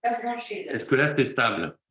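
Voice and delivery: choppy, robotic call audio; radio breaking up. Real, not acted. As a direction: voice cutting in and out. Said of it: "t'entends par bribes".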